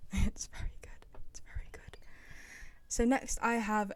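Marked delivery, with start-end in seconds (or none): 0.1-2.0 quiet amused aside. Real, not acted. Amused aside after banjo noise.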